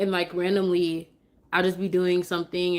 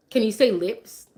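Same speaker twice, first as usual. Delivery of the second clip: teaching a word; 3 semitones higher, 3 dB louder than usual. Shown as a demonstration. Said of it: "I tried to work on flashcards".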